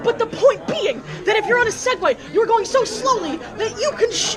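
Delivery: high, laughing, incredulous rant; giggling, high-pitched disbelief. Real, not acted.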